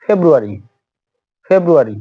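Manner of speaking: ফেব্রুয়ারি said "feb-roo-ary"; British pronunciation. Shown as a demonstration. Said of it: "এর পরবর্তীতে দেখুন". (শিক্ষকের উচ্চারণে ফেব্রুয়ারি)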